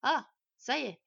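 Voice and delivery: delighted little outburst; pleased exclamation. A narrator's reading. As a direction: rejoice at finally getting it. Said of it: "se réjouit-il".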